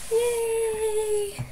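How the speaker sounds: high excited squeal; cheer. Real, not acted. Vlogger cheering at the end of the book, high and bright. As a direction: celebrate finishing the story.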